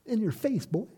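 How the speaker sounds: high mocking showoff voice, dragging out Victorious; gloating taunt. Preacher mocks a gloating Jesus with a high taunt. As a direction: strut and gloat like a bully. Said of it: "I don't see Christ going down there and going".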